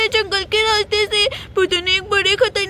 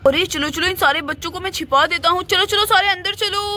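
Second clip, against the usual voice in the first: gruff villain. Acted. Villain herding children.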